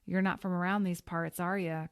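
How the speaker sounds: put-on lightly drawled cowboy accent; a hint of a Western cowboy. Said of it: "in a fake cowboy accent".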